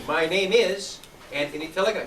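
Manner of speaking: My name is loud, then the name; strong start. Shown as a demonstration. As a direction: model a firm, loud My name is for a student. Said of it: "jump up and say".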